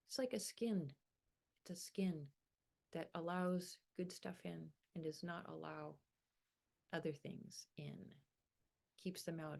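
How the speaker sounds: unhurried meditation guidance with long pauses; guided meditation. Acted. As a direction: gently lead them through breathing and grounding, phrase by phrase.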